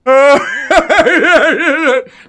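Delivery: high loud burst of laughter; mock crowd laugh. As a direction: voice the tavern crowd cracking up.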